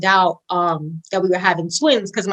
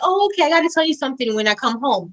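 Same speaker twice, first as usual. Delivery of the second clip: breezy, higher-pitched retold aside; casual; 5 semitones higher, faster than usual. Wife calls husband before getting home, mock-casual. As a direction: toss it off lightly and quickly. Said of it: "just casually".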